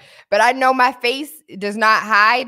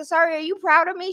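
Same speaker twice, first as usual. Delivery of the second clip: incredulous; 9 semitones higher, faster than usual. Retold or imitated. Retold incredulous reply.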